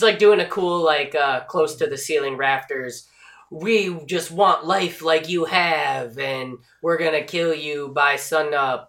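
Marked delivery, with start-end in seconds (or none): 3.5-8.9 slow, drawn-out demon threat; lightly voiced demon; floating demon. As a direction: intone it slowly like a hovering demon.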